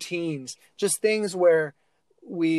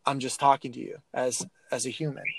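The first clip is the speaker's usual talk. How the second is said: calm, understated, softening toward the end; really soft; 3 semitones lower, 4 dB quieter than usual. Acted. Coach talking to a player as a human, soft and calm. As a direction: talk gently and plainly, without any edge. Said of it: "now coach is being really soft".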